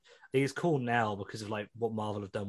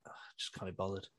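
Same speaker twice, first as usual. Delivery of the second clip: lazy can't-be-bothered; 5 semitones lower, 13 dB quieter, faster than usual. Retold or imitated. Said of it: "and you're like".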